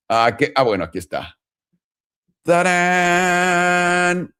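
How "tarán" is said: ta-da fanfare. Pretend. Presenting the chart.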